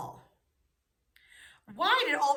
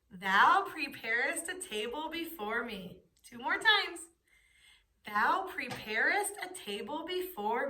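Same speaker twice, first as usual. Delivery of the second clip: choral recitation. Shown as a demonstration. Class repeating the memory verse together, chanted. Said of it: "Say it with me".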